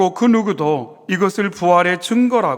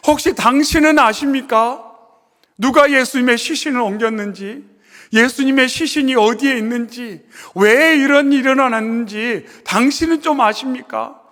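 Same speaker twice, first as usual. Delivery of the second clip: higher, louder, begging questions; Mary begging the gardener, higher and louder; pleading Mary; 5 semitones higher, 3 dB louder than usual. Acted. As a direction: implore the stranger for an answer. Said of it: "이렇게 간청하는 마리아의 모습".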